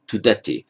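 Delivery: tudati with short TU, stressed DA; stress on the end. Shown as a demonstration. Teacher giving the actual sixth-class form, later stress on tudati. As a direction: put the weight late in tudati, on "da". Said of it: "It stresses on the end".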